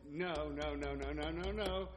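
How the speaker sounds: light imitation of a toddler's refusal; imitated two-year-old. Two-year-old refusing a parent, mock toddler protest. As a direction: run the no's together like a toddler. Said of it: "it's two-year-olds, they".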